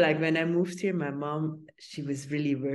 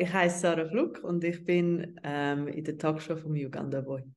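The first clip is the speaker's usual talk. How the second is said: speaking German on request. Shown as a demonstration. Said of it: "in German".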